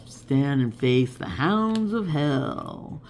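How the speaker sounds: slow, deep, spooky recitation; hammed-up horror narrator; Vincent Price voice. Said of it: "I can't do his voice".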